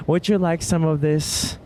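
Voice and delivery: a lightly hammed-up fancy server, slow on "hanger steak?"; mildly over-the-top waiter offering steak; dramatic server. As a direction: play it extra and elegant, stretching "hanger steak?". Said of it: "So dramatic, right?".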